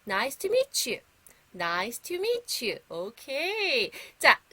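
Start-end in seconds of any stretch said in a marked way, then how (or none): 0.1-1.0 model phrase. Shown as a demonstration. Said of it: "다시 한번 큰 소리로". 1.5-2.8 very slow, careful "Nice to meet you."; slow model phrase. Shown as a demonstration. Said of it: "다시 한번 큰 소리로".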